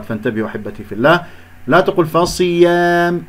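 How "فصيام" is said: فصيام with the alef spoiled; drawn-out, wrongly coloured alef in فصيام; mistaken alef sound. Shown as a demonstration. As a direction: show the faulty long a in فصيام. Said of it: "لا تقل صوت الألف".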